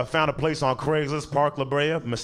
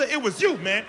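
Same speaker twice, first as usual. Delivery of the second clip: mock outraged yelling; 12 semitones higher than usual. Comic scolding of a kid over a candy bar, high and shouting. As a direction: rage over a stolen Snickers, over the top.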